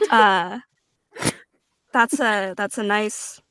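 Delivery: a hint of a creepy lurking stranger; mock creepy flattery. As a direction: sidle up with a lightly creepy compliment. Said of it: "Not, not creepy at all".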